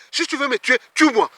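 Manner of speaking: plus haut et plus fort, en colère; colère rejouée. Retold or imitated. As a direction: lance le défi au policier, furieux. Dispute avec la policière. (s'énerve contre la commandante, voix haute et forte)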